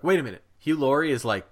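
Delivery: mock double take, pitch jumping up; surprised reaction. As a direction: retell a moment of disbelief. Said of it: "you're like".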